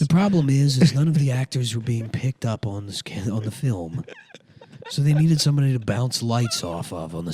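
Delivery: lightly voiced Hollywood actor; Steven Dorff. Comic as the actor recalling his job on Blade, light impression. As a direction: explain yourself as a self-important baritone actor, lightly. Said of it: "it's the same. It's just Alec Baldwin".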